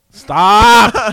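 loud, high yell at yourself; exasperated outburst; frustrated shout. Real, not acted. Second try, now yelled at himself.

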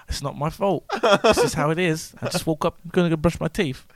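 put-on quiet, apologetic British accent; sheepish mock British accent. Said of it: "I guess you're British today".

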